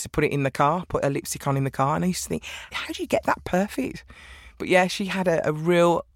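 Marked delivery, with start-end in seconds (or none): 2.7-4.0 marvelling. Retold or imitated. Voicing her amazed thought about mum.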